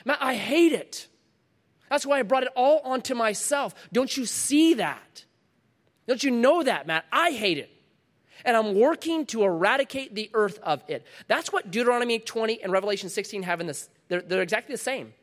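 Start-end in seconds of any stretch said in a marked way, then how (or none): 0.1-11.1 higher-pitched, insistent voicing of Jesus; impassioned anger. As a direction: press the point with rising indignation. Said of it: "I'm angry at it too".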